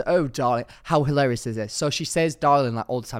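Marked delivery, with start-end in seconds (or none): 0.1-0.7 louder, lightly put-on posh darling; a touch of gushing socialite; Charlotte Tilbury. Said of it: "She goes". 2.4-2.7 loud, lightly mock-posh darling; imitated socialite, falling tune; Charlotte Tilbury. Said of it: "She's so posh".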